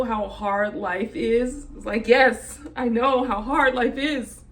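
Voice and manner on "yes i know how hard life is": louder, exasperated comeback; exasperated retort. Retold or imitated. Answering people who insist life is hard, exasperated retort. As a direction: push back at the critics, emphatic and fed up.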